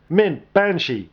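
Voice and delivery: slow, drawn-out shout of two names. A narrator's reading. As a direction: call them out slowly and loud. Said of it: "Duke shouted".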